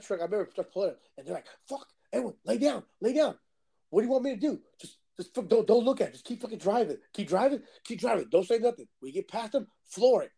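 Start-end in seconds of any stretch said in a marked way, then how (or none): 1.7-8.9 urgent, higher-pitched retold orders; panicked orders. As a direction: act out friends panicking in the truck. Retold panic as truck pulls up.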